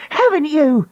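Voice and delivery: high, jabbing cry. Acted. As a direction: jab the question. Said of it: "she cried".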